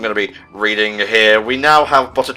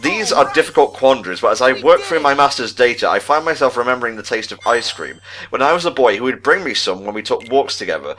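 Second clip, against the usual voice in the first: measured, even read-aloud of a diary entry; reading a report. Acted. Reading the secret report aloud to his co-host, measured and even. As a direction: read it like a scholar's private log.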